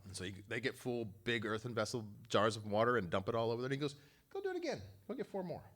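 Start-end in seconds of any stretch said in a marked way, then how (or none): 4.3-5.6 commanding. Retold or imitated. Elijah ordering the servants.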